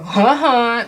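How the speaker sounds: jeering little taunt; Nelson. Retold or imitated. Reader mimicking a petty parting shot, jeering. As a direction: imitate a cartoon bully's mocking laugh. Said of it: "like a Nelson".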